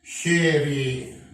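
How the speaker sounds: شيري said slowly with sh; slow word demo. Shown as a demonstration. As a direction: draw out شيري for students. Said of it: "مثل إيه؟". (نطق شيري ببطء بالشين)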